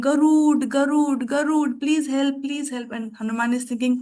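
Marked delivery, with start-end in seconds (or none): 0.0-2.9 mock urgent cry of Garud's name; calling for help. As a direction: call out to the great bird for rescue. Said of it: "Ramchandra started saying".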